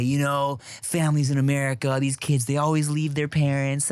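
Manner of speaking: put-on lightly done mom accent slipping towards Trump; mom's accent. Mother lecturing about American families, lightly accented imitation. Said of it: "your mom accent always slips into Trump".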